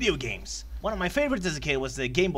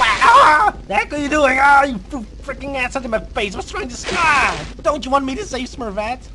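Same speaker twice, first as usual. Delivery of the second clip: high, loud screams of pain and outrage; hammed-up screaming; 12 semitones higher, 11 dB louder than usual. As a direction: yelp and protest as if scalded. Acts out acid thrown in face.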